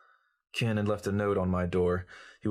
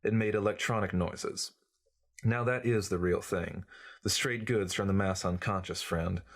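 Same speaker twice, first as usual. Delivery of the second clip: bad southern accent. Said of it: "He lapsed back into his bad southern accent".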